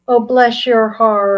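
syrupy bless your heart. Shown as a demonstration. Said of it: "it's all in the inflection".

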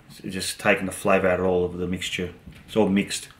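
chewing while talking; snack held at lips; mouth partly full. Real, not acted. Seen 2: Holds orange piece at lips, bites at 2.3, chews between words.

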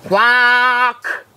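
long, high "Quack" with an O vowel, like kwock; "Quack" drawn out on one note, rhyming with clock. A narrator's reading. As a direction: duck trying "Quack" as a held kwock. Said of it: "tried it out".

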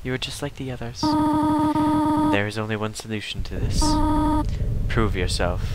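a hint of a stern mother; Toriel voice. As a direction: read it like a gentle but firm guardian. Reads Toriel's lines in voice.

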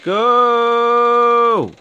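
high, loud urgent yell; urgent shout. Real, not acted. Gamer fleeing a monster, urgent shout. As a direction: shout yourself into running.

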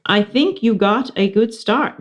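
teacher voice. Acted. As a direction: speak up like a kind teacher. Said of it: "Missus Brisbane said".

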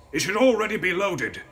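strained, high, loud croak of a man in pain; croaking injured man. A narrator's reading. Coachman speaks.

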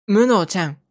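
無能ちゃん with 無能 pitched like ルソー; as instructed. Shown as a demonstration. Hero calls the robot by the name as she taught him. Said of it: "言われた通りの発音で名前を呼ぶと".

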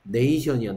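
네이션 with a clear "ay" glide in 네이; teacher sounding out 네이션이야 with "ay"; pronunciation demo. Shown as a demonstration. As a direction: model the long A in 네이션이야 for learners. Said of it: "근데 얘는 발음이 뭐다?".

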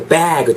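"bag" with a long, wide A; long, open vowel. Shown as a demonstration. Teacher models the noun, long and open. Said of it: "좀 길게 이렇게 크게".

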